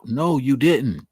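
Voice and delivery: slow, "didn't" leaned on; slow firm denial. Shown as a demonstration. Correcting himself to viewers, slow firm stress. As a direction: deny it flatly and slowly. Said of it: "I'll take the probably out".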